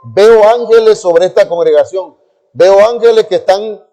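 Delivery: lightly voiced preacher declaring a vision; preacher proclaiming. Preacher telling the congregation his vision, proclaiming. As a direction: retell the preacher's proclamation with some push. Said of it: "empezó a decir así".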